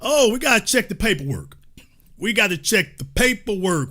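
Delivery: lightly voiced fussy clerk; half-hearted bureaucrat voice; mock officious checker. Mocking critics who demand to check the paperwork, lightly officious. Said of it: "It's like".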